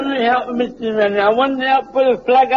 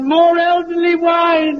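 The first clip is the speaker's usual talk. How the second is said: put-on sung-out higher, drunk; drunken shout; 4 semitones higher than usual. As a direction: bellow it like a drunk. Drunk man calls for wine.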